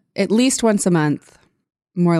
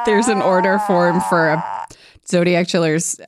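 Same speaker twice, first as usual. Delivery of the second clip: normal talking voice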